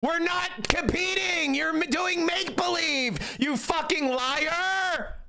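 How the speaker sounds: mock outrage. Mock rant at the guest again.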